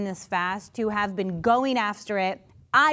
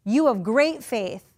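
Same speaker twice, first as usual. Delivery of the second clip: impressed Jesus; 5 dB louder, slower than usual. Retold or imitated. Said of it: "He's gonna say".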